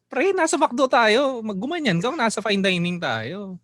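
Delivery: hammed-up irked telling-off; annoyed reproach. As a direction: draw out the endings in exasperated mock complaint. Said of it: "Nakakaurat eh".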